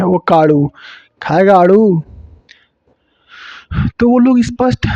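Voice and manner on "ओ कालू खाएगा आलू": Haryanvi retroflex la. Shown as a demonstration. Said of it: "लेकिन वो लोग काड़ू बोलते हैं".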